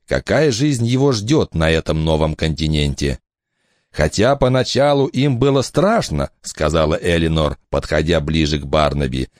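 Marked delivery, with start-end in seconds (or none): 3.9-6.3 higher, lively woman's voice; mother's voice. Acted. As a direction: speak up bright as the mother. Eleanor approaches.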